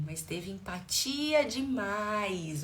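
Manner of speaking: "empatia demais" stretched out slowly; drawn-out emphasis. Real, not acted. Coach reading participant's key comment, "empatia demais" drawn out.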